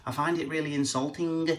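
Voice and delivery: lightly voiced wife insisting she's from Cheshire; wife objecting. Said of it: "Although Lindsay says".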